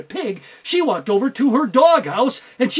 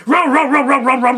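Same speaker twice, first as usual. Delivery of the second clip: loud rapid barks; bulldog barking; 3 semitones higher, 8 dB louder than usual. Acted. Bulldog bursting out of the bag, loud barking. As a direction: bark and chase.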